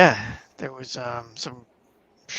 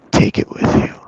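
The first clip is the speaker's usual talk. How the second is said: whispered; 12 dB louder than usual. Retold or imitated. Retold girl, repeated.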